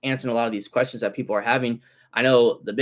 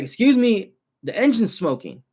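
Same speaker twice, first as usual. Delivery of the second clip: high, louder imitation of the lady calling; 9 semitones higher, 4 dB louder than usual. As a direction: call after the car in a lady's voice. Customer lady calls after driver.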